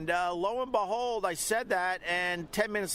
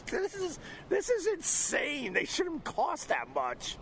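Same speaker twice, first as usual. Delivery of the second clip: retold outrage; 11 semitones higher, slower than usual. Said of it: "I'm like".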